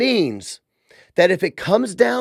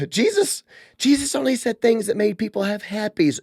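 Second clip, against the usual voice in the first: mocking naive believer; 3 semitones higher than usual. Host parodies Christians who call Jesus only nice, mock-naive. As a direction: parody a sugary churchgoer.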